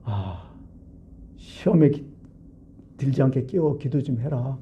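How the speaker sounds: mild, patient gentle request; retold with forbearance, no scolding; without anger. Jesus finding his disciples asleep, gently patient. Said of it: "화내지 않고".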